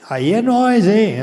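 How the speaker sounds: loud hyped boast; loud cheering tone. Real, not acted. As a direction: pump up the crowd. Hyping crowd.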